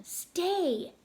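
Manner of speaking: yelled command. Acted. Axel to his dog, sharp command. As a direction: stop the dog from jumping.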